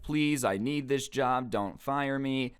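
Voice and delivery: ex-employee begging the manager not to fire him, mock sobbing; mock crying plea. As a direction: ham up a tearful plea to keep the job. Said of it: "So he starts crying".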